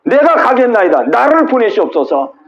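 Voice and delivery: 높고 힘찬 간절한 응답; 손 들고 나서듯 힘차게; 이사야의 자원. Acted. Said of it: "이사야가 두 손을 번쩍 들고". (이사야가 높고 힘차게 자원하는 목소리)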